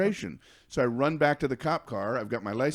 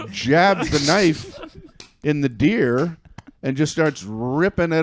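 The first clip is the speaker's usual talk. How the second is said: building louder; 5 dB louder, slower than usual. Real, not acted. Building to the gory climax.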